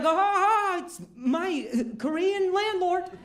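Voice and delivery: high, hammed-up greeting back; mirrored greeting. Comedian greets his landlord back, mirroring the big hello. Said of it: "And I was like".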